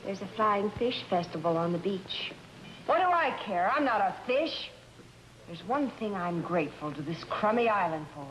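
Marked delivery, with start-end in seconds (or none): 2.9-4.7 higher-pitched, scornful retort; exasperated. Acted. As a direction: throw his invitation back at him, irritated. Wife quarrels with husband over festival.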